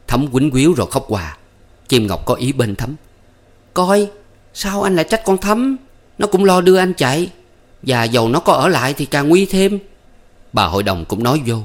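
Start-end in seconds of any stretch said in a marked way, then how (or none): 3.7-9.8 put-on young woman defending. A narrator's reading.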